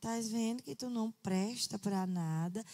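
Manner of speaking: put-on low, soft, sweet voice.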